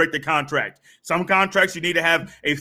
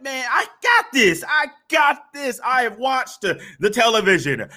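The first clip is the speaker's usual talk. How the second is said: swaggering youngster, pitched up and sure of himself; cocky teen; 6 semitones higher than usual. Retold or imitated. Teen boasting to himself about his new girlfriend, cocky. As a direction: play the overconfident kid who thinks TV taught him everything.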